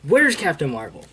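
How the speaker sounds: mildly heated, pitch up at first; retold livid. Tony demanding answers about Captain Marvel, retold livid. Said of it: "livid and is just like".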